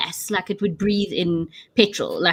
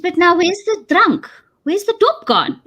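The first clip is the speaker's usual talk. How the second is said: high, alarmed voice of the friend; a mock shrieked question, pitched up; friend's panic; 8 semitones higher than usual. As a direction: sister in law hunting for her drink, mock alarmed. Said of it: "And she said".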